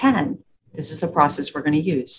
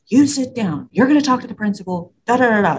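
higher, sharper scolding teacher voice; stern teacher; 5 semitones higher than usual. Retold or imitated. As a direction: order the kid to sit like an irritated teacher. Teachers scolding kid at office.

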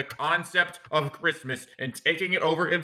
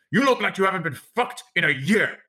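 Al Pacino as Scarface; 4 semitones higher than usual. Retold or imitated. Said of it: "goes up to her tenderly and says".

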